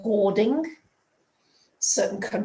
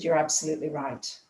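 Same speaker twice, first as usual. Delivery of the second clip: tearful agreement; 5 semitones lower, 3 dB quieter, faster than usual. Retold or imitated. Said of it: "still sobbing".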